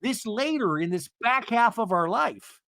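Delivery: high, earnest-sounding mock husband; hammed-up high-pitched sincerity; Seth imitation. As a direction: gush in a high put-on voice. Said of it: "And he's like".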